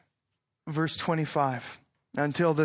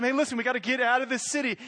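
urgent warning; 6 semitones higher, much faster than usual. Retold or imitated. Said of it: "he tells them".

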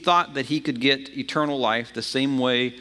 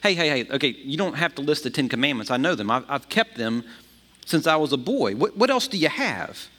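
frustrated interruption. Retold or imitated. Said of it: "this guy gets frustrated and he interrupts".

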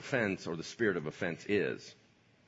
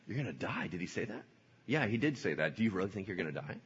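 soft sly doubt; 4 semitones lower, 6 dB quieter, faster than usual. Acted.

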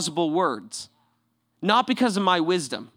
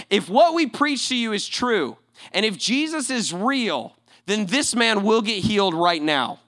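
spiritual pastor mode; 3 semitones higher than usual. Retold or imitated. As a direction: proclaim it like a pastor, phrase by phrase. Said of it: "spiritual pastor mode".

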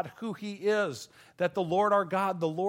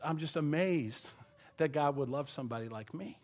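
real tears at the edge of the voice, softer; choked up; 6 dB quieter than usual. Real, not acted. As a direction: let the words catch as emotion rises. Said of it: "See, I'm starting to choke".

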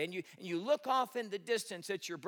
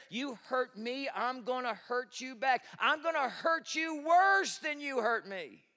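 vengeful inner voice; 6 semitones higher, 4 dB louder, slower than usual. Retold or imitated. Voicing vengeful human nature.

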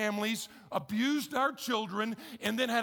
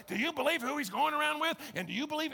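mock gossip; 7 semitones higher, faster than usual. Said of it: "It's like".

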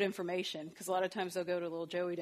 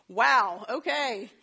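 taken aback; 3 semitones higher, 11 dB louder, much slower than usual. Retold or imitated. Daughter shrugs off punishment.

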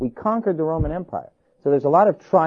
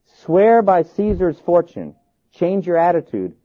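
slow, louder command; official demand; 4 semitones higher, 4 dB louder, slower than usual. A narrator's reading. Proconsul ordering Polycarp to renounce, demanding. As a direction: press the demand with measured force.

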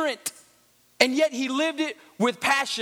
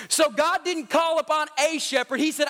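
preaching; 2 semitones higher than usual. Acted. Preacher builds to full force.

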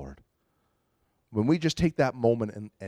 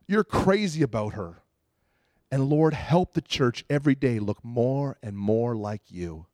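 tender prayer; slower than usual. Retold or imitated.

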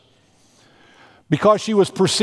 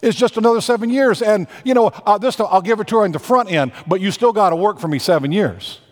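breezy deal-maker; 5 semitones higher, faster than usual. Acted. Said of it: "He says".

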